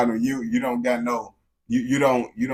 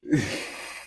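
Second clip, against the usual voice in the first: laugh; 3 semitones lower, 5 dB quieter than usual. Real, not acted. Laughs after questioning the NPC.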